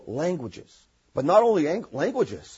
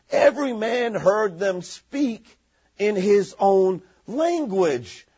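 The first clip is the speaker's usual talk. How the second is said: scripture reading; slower than usual. Acted. Reads scripture aloud.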